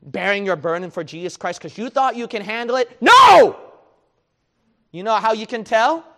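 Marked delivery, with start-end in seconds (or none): 3.0-3.6 a sharp, high, loud cry of No; sudden shout. Real, not acted. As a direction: burst out with a loud No. Preacher cries out mid-sermon.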